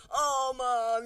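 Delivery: embarrassed daughter pushing back; embarrassed groan. Retold or imitated. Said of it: "you know, like that".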